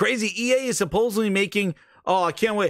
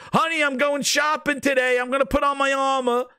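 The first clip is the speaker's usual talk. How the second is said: mock Master Chief; 7 semitones higher than usual. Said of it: "He puts on his armor like he's".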